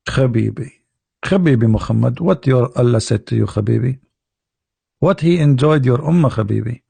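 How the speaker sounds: lightly voiced mock Israeli accent; Musa, Israeli accent. Musa questioning Muhammad, light mock Israeli accent. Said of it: "But you wanna hear Israeli accent".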